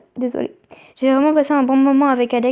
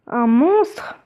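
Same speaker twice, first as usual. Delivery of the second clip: whisper. Acted. Character doubts the monster.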